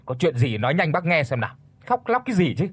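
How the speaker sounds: put-on old man snapping at the crying caller. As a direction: scold her to stop crying. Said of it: "Ông Toàn gắt lên".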